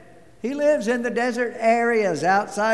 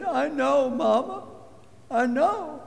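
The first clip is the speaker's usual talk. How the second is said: put-on much higher child's voice; little boy; 9 semitones higher than usual. Boy telling his mother at dinner, high childlike voice. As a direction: play the upset little boy.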